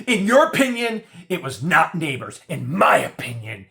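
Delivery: high mocking defiant voice; defiant woman. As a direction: play her as smug and stubborn. Retelling her defiant deposition answer.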